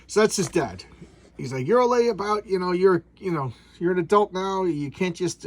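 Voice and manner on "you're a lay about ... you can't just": lightly voiced stern father, louder and higher; scolding dad. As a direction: imitate a dad telling off his son. Acts out dad scolding son.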